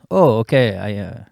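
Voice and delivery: deep, quick French dubbed tough guy; Arnold Schwarzenegger. Acted. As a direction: drop low for a dubbed action-hero threat. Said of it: "Speak like, like that".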